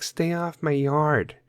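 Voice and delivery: mock crotchety homeowner; grumpy neighbor. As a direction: drag out a cranky get-off-my-lawn warning. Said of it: "that guy or that woman like".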